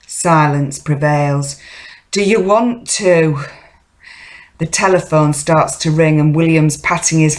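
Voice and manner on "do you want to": higher-pitched insistent question; prodding a silent partner; pressing for an answer. Acted. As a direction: push for a reply, pitch lifted.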